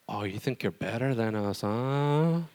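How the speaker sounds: mock sneer. Mocking friends' jibe.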